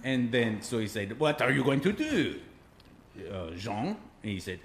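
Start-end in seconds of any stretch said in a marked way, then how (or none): 1.2-4.0 lightly voiced French baker; mock French accent. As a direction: ask in a put-on French accent. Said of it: "I'll tell it in his voice".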